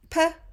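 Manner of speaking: "P-L-A" split into three separate sounds; sounded out. Shown as a demonstration. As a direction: segment "P-L-A" one sound at a time. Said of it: "Sound it out".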